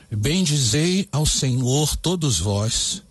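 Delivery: slow, deliberate lyric reading; slow, careful reading of the new lyric. Shown as a demonstration. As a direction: read the verses out for dictation. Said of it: "Anote aí então como ficou essa letra".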